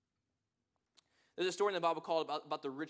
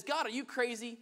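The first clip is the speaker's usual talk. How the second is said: exasperated man; 5 semitones higher, 5 dB louder than usual. Retold or imitated. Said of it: "The man looked at God and says".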